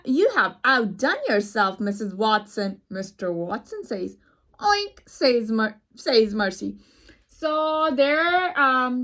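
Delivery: clear, lively storybook reading; reading aloud to kids. Acted. Teacher reading a picture book to her students, lively storybook voice. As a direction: read the story to the class with expression.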